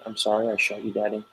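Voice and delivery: softly voiced child's sorry; small apology. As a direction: quietly retell a little one apologizing. Child's apology to parent, retold.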